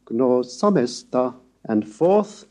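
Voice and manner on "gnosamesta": "gnosamesta" with a rise on the accented syllable, slow; acute accent. Shown as a demonstration. Lecturer demonstrating the acute rise, slow. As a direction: lift the pitch on the acute of "gnosamesta". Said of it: "the rising tone of the acute in gnosamesta".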